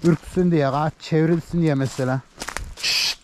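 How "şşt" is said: a sharp shush to steer the flock; short breathy hiss at the herd. Shown as a demonstration. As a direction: shush the animals to turn them. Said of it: "istediğin şekilde ses çıkarabiliriz".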